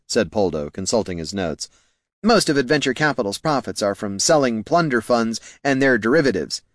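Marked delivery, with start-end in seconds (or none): 2.2-6.6 lightly voiced earnest subordinate, slightly high; deferential junior clerk. Clerk explaining profits to his bosses, mildly deferential.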